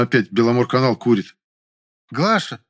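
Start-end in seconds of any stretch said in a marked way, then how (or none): 2.1-2.6 высоко, зовёт из глубины квартиры; позвать домработницу через квартиру; окрик пожилой актрисы. A narrator's reading. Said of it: "знакомый хрипловатый голос с характерным акцентом". (зовёт из комнаты)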